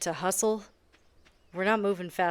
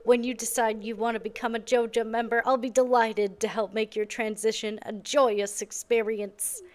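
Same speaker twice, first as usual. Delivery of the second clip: Morris voice; 2 semitones higher than usual. Acted. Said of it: "I don't know why I gave you that voice".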